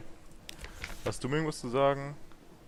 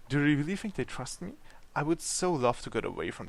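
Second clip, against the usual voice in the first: hopeful Deviless; 3 semitones higher than usual. Acted. Deviless asking her guest about the embassy, hopefully. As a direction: ask it as a lightly voiced devil lady.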